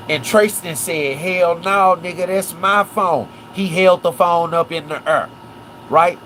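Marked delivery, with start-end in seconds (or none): 1.2-3.3 higher-pitched indignant retort; mildly heated acted comeback; indignant refusal. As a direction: refuse as if defending what is yours. Acts Tristan refusing to give phone.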